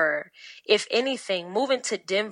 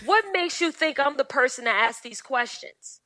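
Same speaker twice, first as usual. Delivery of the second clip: mock polite confrontation; 5 semitones higher than usual. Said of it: "just go".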